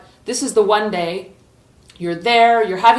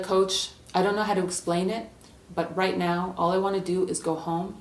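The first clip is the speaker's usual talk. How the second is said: softer, reluctant player's voice; subdued confession; 2 semitones lower, 7 dB quieter than usual. Acted. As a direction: admit it quietly to the coach. Player quietly quits to coach.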